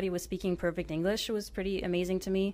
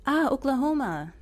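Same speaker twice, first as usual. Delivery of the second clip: put-on higher and louder "Ah, Oklahoma" in an Arabic accent; the penny drops, in an Arabic accent; 8 semitones higher, 5 dB louder than usual. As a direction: villager recognising the place, Arabic accent. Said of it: "the other man said".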